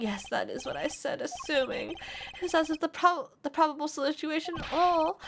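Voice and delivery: lightly voiced pedantic witness, lifting as he argues; a hint of a fussy know-it-all lecturing; insufferable witness. Witness schools the court on assumptions, lightly pedantic.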